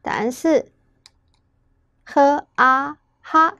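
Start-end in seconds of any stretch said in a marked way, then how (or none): 2.0-3.5 呵啊哈 slowly blended, "h", "a", then "ha"; slow teacher's blending of 呵啊哈; sounding out syllables. Shown as a demonstration. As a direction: sound out 呵 and 啊 separately, then join as 哈. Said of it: "加上N是憨的声音".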